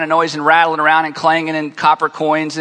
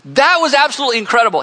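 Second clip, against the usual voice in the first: awed praise; 4 semitones higher, faster than usual. Retold or imitated. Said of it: "And Jesus says".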